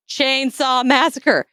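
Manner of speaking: slow, pointed mock exasperation; exasperated spelling-out. Sister spells out title to clueless teen, slow exasperated. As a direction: spell it out slowly for a slow listener. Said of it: "She's like".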